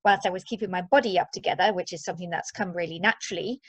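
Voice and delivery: ordinary talk, nothing marked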